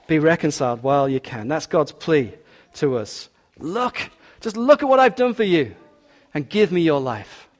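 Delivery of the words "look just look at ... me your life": pleading voice of God. Acted. God's plea voiced as God.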